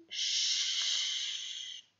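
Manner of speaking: "ch" as a long voiceless shush; hushing ch sound. Shown as a demonstration. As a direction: breathe out "ch" like hushing. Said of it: "Si je fais le son de celui-ci".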